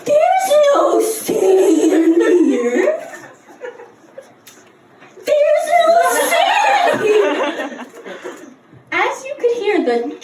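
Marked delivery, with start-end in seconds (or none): 0.1-3.1 very slow, drawn out, rising; slower mock dad. 5.2-7.9 high-pitched exasperated yell. Retold or imitated. Dad shouting in the road.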